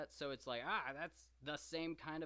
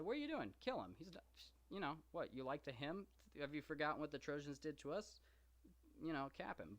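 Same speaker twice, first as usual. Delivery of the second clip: Agamemnon's angry rebuke; 3 semitones higher, faster than usual. Retold or imitated. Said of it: "Agamemnon said".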